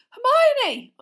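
loud high cry of her name; shout. Acted. Reader calling out the girl's name, loud and high. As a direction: call out in alarm.

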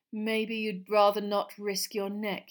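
slow, loud, sneering taunt; sneering Malfoy. Acted. Malfoy suggests Potter is afraid, sneering. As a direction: sneer it out slowly. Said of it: "sneering laugh".

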